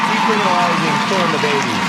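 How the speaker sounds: loud, fast outrage; outraged. Real, not acted. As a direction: spit it out in disgust.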